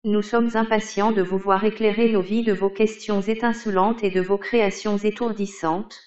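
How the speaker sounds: robotic text-to-speech read; monotone computer voice reading aloud; old speech synthesizer. Acted. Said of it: "Vous avez sélectionné Microsoft Hortense Desktop".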